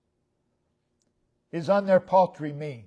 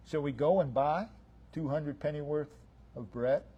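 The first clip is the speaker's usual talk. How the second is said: understated sarcastic question; sarcasm; 5 dB quieter than usual. Retold or imitated. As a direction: ask it drily, in short separated phrases. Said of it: "of sarcasm in those words".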